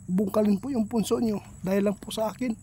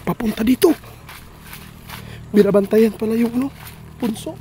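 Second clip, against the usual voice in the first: urgent alarm; 3 dB louder than usual. Real, not acted. Owner approaching, urgent.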